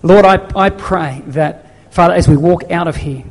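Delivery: closing prayer. Acted. Pastor praying over the congregation at service end, fervent prayer. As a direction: pray over the church with passion.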